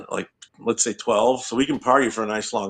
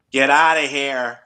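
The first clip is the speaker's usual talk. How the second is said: gruff get-out; slower than usual. Retold or imitated. Acting out customers getting mad.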